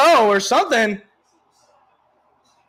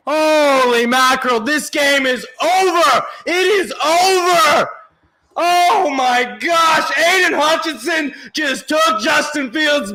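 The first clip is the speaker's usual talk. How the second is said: excited celebration. Real, not acted. Celebrating the win.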